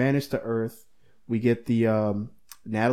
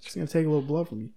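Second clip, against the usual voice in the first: quick casual doctor; 3 semitones higher, 4 dB quieter, much faster than usual. Retold or imitated. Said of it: "he looked so appalled at it".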